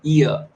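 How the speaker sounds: long ई gliding into अ; diphthong sound demo. Shown as a demonstration. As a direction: draw out ई and slide onto अ. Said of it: "इस तरीके से जो sounds होती हैं".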